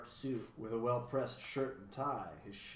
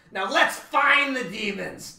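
high, loud, drawn-out battle cry; rally them with blustering bravado; slow, shouted call to action; fierce cry; 10 semitones higher, 13 dB louder, slower than usual. A narrator's reading. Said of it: "humbug fiercely brandishing his cane".

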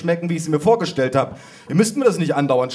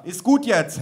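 snapping; 9 semitones higher than usual. A narrator's reading. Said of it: "herrschte meine Cousine".

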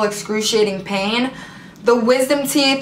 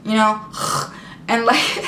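imitated heavy sighs. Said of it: "I start to go like".

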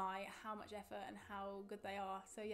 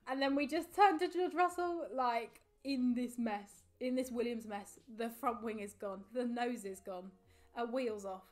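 shocked exclaiming; 7 dB louder, slower than usual. Real, not acted. Shocked recounting of crash.

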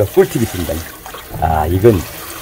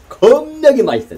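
excited rave; 4 dB louder, slower than usual. Real, not acted. Host raving to viewers about pickled cucumber, excited and slow. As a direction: pitch shoots way up, drawn out slowly.

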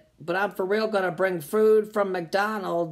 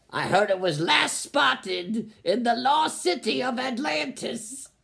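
mock dramatic quest; 2 semitones higher than usual. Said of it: "Can you be a little more dramatic".

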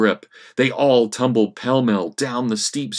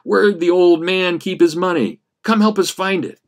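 sly asking; 9 semitones higher, 5 dB louder than usual. Acted. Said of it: "Ratface asked".

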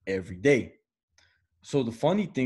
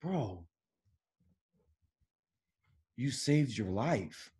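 deadpan stoner advice; 7 dB quieter, slower than usual. Retold or imitated. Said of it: "I'm like".

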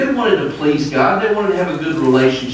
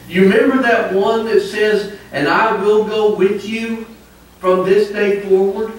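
whiny son; 5 semitones higher than usual. Retold or imitated. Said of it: "He said".

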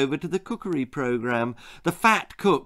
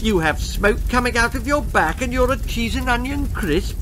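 incredulous; 7 semitones higher than usual. Acted. Mad cook incredulous.

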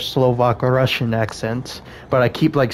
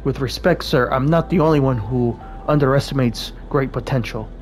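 attempted Russian accent. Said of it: "give Alexei and Alina a more Slovak or Russian accent".

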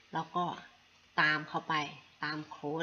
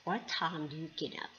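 very slow, careful English demo; teacher modelling the question for a friend; slow model question; much slower than usual. Shown as a demonstration. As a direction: lay out each word slowly. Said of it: "พอดาวบอก".

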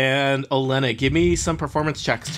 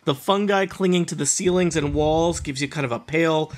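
slow, eerie scene setting; scene narration; 3 semitones higher than usual. A narrator's reading. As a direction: paint the grove slowly.

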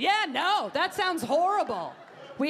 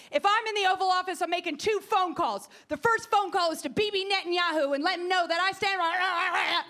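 mock Carly screaming; 5 semitones higher than usual. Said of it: "she just screams".

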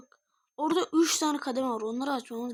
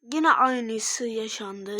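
slow disbelief; 3 semitones lower, 4 dB louder, much slower than usual. Real, not acted. Same thing happened again.

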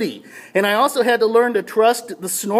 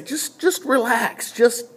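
slow, gently reassuring quote; calming inner voice. Retold or imitated. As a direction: coax a panicked swimmer to relax. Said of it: "I hear this voice just".

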